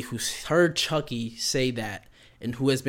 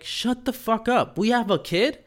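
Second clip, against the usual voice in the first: shocked disbelief; 10 semitones higher than usual. Retold or imitated. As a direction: act floored by the news, voice jumping up. Parents shocked at having kid.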